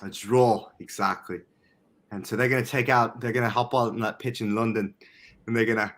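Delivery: shaky grasp of British vowels; attempted British accent. Shown as a demonstration. Podcaster previewing the London game, in an attempted British accent. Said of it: "try and do my British accent".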